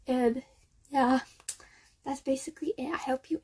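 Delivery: boxed-in phone recording; muffled closet sound. Real, not acted. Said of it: "recording this in a closet on my phone".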